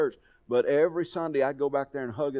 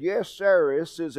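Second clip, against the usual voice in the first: imitated Cajun-country accent, pitched up; heavy country accent; 4 semitones higher, 4 dB louder, slower than usual. Preacher imitating the caller on the phone, heavy country accent. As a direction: lightly mimic an Arkansas country caller. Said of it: "he's got this accent that's far beyond mine".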